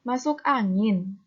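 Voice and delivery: slow question with "angin" drawn out; questioning intonation. Shown as a demonstration. Teacher repeats the ad question for pupils, questioning intonation. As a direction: stretch "angin" as if asking the reader. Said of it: "ada intonasi tinggi di belakangnya".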